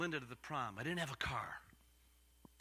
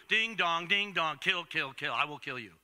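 chiming echo that fades away; sing-song bell in the head; ringing bell. Acted. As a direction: toll the words, dying down at the end. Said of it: "You think that rang in my ears?".

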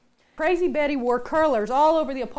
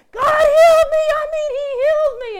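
much higher and louder, laughing and crying at once; screaming; 13 semitones higher, 14 dB louder than usual. Retold or imitated. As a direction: shout it out the car window, laughing through tears. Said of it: "And she was screaming".

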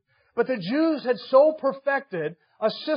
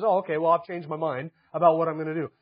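a lightly voiced offhand shrug, lower and quicker; mock casual change of mind; 4 semitones lower, faster than usual. Preacher mocking the idea of God changing plans, lightly voiced offhand shrug. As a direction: toss it off like a careless afterthought. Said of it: "as if God gets new information and says".

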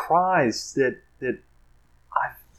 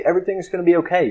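mock comforting; 3 semitones higher, faster than usual. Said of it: "pat me on my shoulder and say".

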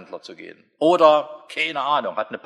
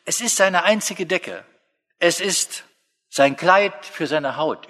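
tender; 3 semitones higher, slower than usual. Acted. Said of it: "Gott drückt sich sehr zärtlich aus".

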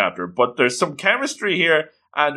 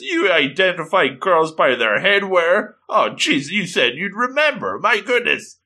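higher, peeved schoolgirl scolding; peeved girl; 5 semitones higher than usual. Acted. Girl scolds boy who forgot her face, peeved. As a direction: huff at him for not remembering her. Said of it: "Kotoko is peeved by this".

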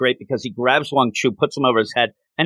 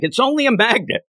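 mock scream; 10 semitones higher than usual. Wang Chu yelling at his fleeing troops, mock scream. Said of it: "Wang Chu is screaming".

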